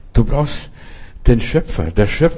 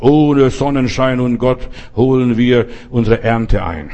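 boastful quote; slower than usual. Retold or imitated. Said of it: "die haben ganz große Töne gespuckt".

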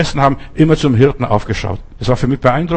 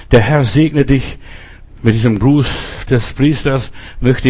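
priestly blessing. Acted.

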